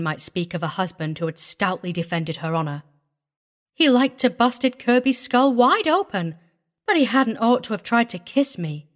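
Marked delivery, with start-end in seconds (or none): 3.7-8.9 higher, prim country wife; primly defensive. A narrator's reading. Wife defends husband over attempted kiss, primly. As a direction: defend him with prim indignation. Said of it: "she defended primely".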